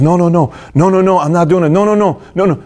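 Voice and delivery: a touch of panic, imitated; imitating panicked refusal. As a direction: refuse over and over like a scared kid. Acting out son refusing the water.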